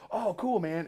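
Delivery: high, easy reply; light and friendly; imitating Jeff. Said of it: "And he goes".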